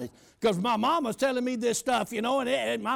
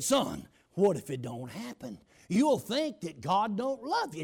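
worried mother; 4 semitones lower, slower than usual. Retold or imitated. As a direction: gently warn him like a cautious mom.

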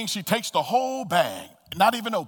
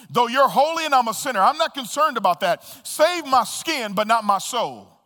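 higher, pleading plea to be taken down; pleading thief; 4 semitones higher, 3 dB louder than usual. Acted. Thief on the cross begging the Lord, higher pleading voice. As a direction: beg to get down, not for salvation.

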